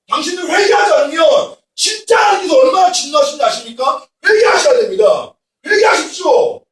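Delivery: loud, high rebuking sermon cry; preaching shout. Retold or imitated. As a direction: thunder at the youth to repent. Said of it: "막 소리치고 야단치고". (청년들을 꾸짖는 설교, 높고 큰 외침)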